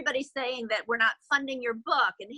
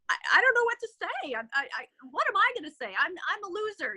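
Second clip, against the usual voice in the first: flustered panic; 5 semitones higher, faster than usual. Retold or imitated. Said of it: "he said".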